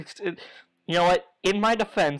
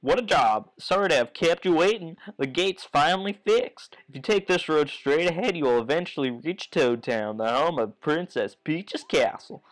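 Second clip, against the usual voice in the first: folksy father voice. Acted. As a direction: reassure Mario with folksy charm. Voicing Goompa again, folksy.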